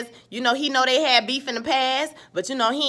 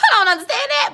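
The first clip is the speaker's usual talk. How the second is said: laughing; 10 semitones higher, 5 dB louder, faster than usual. Real, not acted. Laughing at a character's logic.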